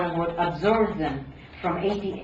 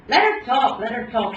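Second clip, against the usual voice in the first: put-on shushing in a Slavic accent, first words louder; 4 semitones higher, 6 dB louder than usual. A narrator's reading. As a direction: hush them in a Slavic-accented Hebrew lilt. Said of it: "she shushed in her Slavic accent of Hebrew".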